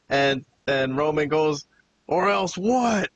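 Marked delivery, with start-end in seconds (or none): 2.1-3.1 slow, higher-pitched retold yell; drawn-out mock yell, pitched up; mild mock scream. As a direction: imitate an outraged scream without really shouting. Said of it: "You know, screams at him".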